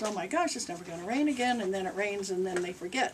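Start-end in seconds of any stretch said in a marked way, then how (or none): 0.0-1.6 mock panic. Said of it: "everybody runs scared and goes".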